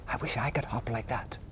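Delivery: soft admiring whisper; whispered thought. Acted. Little hare admiring his father's hop, whispered thought. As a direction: whisper it in awe. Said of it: "thought Little Nut Brown Hare".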